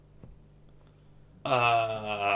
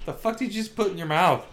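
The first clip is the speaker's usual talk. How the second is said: higher-pitched, baffled acted reaction; mock-incredulous question, pitched up; incredulous disbelief; 6 semitones higher, faster than usual. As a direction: imitate someone weirded out by what they saw. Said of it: "giving him the weird look like".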